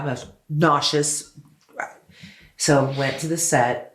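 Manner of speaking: ordinary talk, nothing marked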